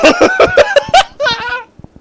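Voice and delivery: very high, loud hysterical laugh; losing it completely; burst of laughter. Real, not acted. Reader cracks up after Squidward line, wild laughter.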